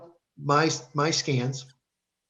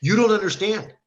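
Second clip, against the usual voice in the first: higher, urgent alarm cutting him off; alarmed doctor; 6 semitones higher than usual. Retold or imitated. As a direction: stop him short, alarmed. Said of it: "my doctor freaks out".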